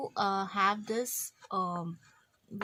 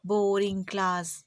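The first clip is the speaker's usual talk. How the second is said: tired bored student.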